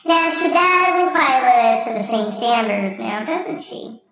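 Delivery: same line in a second, sing-song voice; different voice. Shown as a demonstration. Comedian redoing the Church Lady line in a sing-song voice. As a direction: redo the line in another voice. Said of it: "do this with a different voice".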